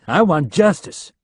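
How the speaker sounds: exasperated. A narrator's reading. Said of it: "An exasperated Leland said".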